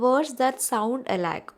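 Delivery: words stretched out very slowly; teacher repeating the definition, very slow; slow dictation. Shown as a demonstration. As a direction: read it out slowly so the class can take it down. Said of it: "ഒരു clue miss പറഞ്ഞു തന്നേ ഉള്ളൂ".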